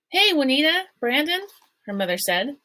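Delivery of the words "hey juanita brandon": calling out. A narrator's reading. Calling out to neighbors on porch.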